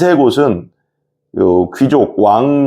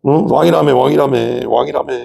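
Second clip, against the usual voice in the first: raised-pitch repeated taunt; mocking; 4 semitones higher than usual. Soldiers taunting the suffering Jesus as king, mocking. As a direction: needle him with a chanted jeer.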